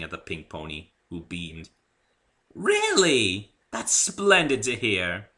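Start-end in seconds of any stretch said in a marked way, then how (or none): 2.5-5.3 higher and slow, pleased and smiling; a delighted lady beaming. A narrator's reading. Rarity smiling at Dave, pleased. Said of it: "said Rarity, smiling".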